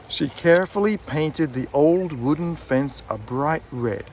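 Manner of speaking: put-on "carefully", "painted", "old", "wooden", "fence", "bright", "red" drawn out and lifted; content-word stress. Shown as a demonstration. Teacher models the sentence for learners, content-word stress. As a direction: pass lightly over "She", "the" and "a", lean on the other words. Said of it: "I didn't put much emphasis on she or the or a".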